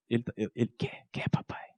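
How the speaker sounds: put-on hushed whisper, a child answering in the dark; whispered child's reply. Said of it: "A gente já tava falando baixinho". (sussurro de criança respondendo ao pai)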